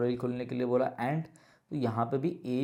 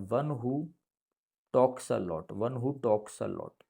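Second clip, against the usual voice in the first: slow dictation; much slower than usual. Shown as a demonstration. Teacher repeating meaning slowly.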